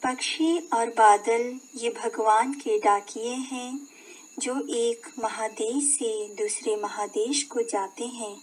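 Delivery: measured poem reading, phrase by phrase; poem recitation. Shown as a demonstration. Teacher reading a Dinkar poem to children, measured recitation. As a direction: recite the verse in a spoken voice, pausing between phrases. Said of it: "का वाचन हम करते हैं".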